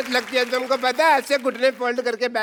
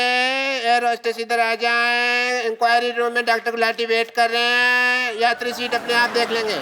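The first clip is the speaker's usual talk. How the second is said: slow station announcer voice; over the intercom. Acted.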